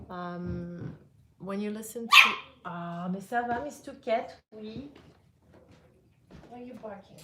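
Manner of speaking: ordinary delivery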